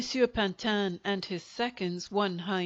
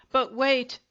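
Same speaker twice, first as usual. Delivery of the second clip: higher, louder furious scream; 4 semitones higher, 5 dB louder than usual. Acted. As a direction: scream it in a rage. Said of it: "he screamed".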